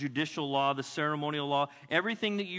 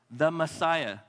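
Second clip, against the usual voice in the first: bold call-out; 5 dB louder, slower than usual. Acted. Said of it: "say it boldly, say it loud".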